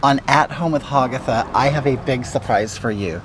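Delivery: campy homely witch host; put-on cooking show hag; Hagatha character voice.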